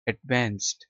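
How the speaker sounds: American "एडवांस्ड" with a short open e sound, advanst; American-accent "एडवांस्ड"; American pronunciation. Shown as a demonstration. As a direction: say "एडवांस्ड" with the vowel of "man", American style. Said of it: "American एक्स-, accent में इसको पढ़ेंगे".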